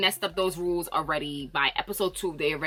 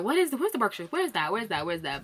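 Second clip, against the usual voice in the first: confused cast members; faster than usual. Retold or imitated. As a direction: repeat the question lost and trailing off. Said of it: "They're like".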